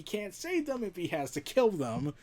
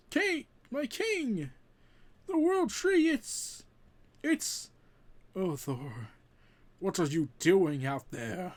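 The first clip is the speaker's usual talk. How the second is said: worried servant. Acted. Worried servant calling Thor.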